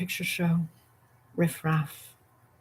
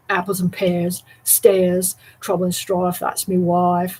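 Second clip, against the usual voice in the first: Cockney rhyming slang. Shown as a demonstration. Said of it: "Like rhyming slang".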